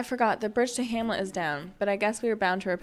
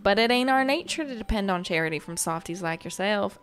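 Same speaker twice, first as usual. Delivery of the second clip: put-on a light go at a rough Autumn Town accent; half-hearted Autumn Town accent. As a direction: read the runaway's lines in a loose Autumn Town accent. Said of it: "I don't know if that's the accent they were going for".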